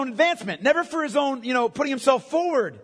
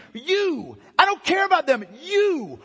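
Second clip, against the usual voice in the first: raised, pressing challenge; forceful questioning; 4 semitones higher than usual. Acted. Preacher voices Jesus asking disciples.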